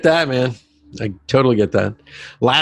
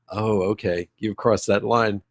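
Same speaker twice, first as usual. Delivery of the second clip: much softer, slower oh okay; hushed realization; 6 dB quieter than usual. Retold or imitated. Parent realizing it is serious, soft and slow. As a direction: drop the voice, gently taking it in. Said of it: "it was like".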